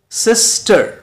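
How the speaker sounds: "सिस्टर" as SIS, pause, TER, pitched high; split into syllables. Shown as a demonstration. Teacher shows learners two syllables, sounded out separately. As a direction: break "सिस्टर" into two drawn-out beats. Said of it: "break करते हैं, तोड़ते हैं".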